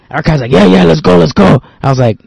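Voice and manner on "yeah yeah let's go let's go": higher, louder excited agreement; raring-to-go retold quote; eager urging. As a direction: imitate a friend keen to go. Retells drunk friend agreeing eagerly.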